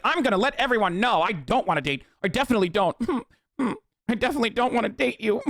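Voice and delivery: overly insistent denial; mock protesting. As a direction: protest too much, teasing. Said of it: "would ever be like".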